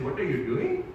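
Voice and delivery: imitated Indian accent, lilting up at the end. Dad checking the teacher's report, Indian accent. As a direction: mimic the line in an Indian accent. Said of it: "she said something with an Indian accent".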